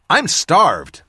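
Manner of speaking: a little winded, catching breath; breathless after running. Acted. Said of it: "slightly out of breath".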